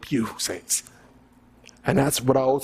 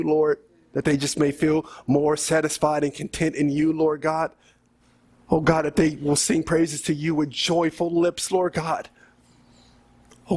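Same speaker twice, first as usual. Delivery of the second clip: spoken prayer in short pleading phrases; earnest prayer. Real, not acted. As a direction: lead the congregation in prayer, pausing between petitions. Leads the closing prayer.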